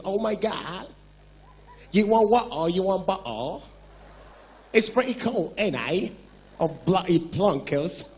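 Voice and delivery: rehearsed fake British accent, words mangled; a Nigerian hamming up a British accent; mock British accent. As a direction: put on a clumsy British accent to sound posh. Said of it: "if you see rehearsal".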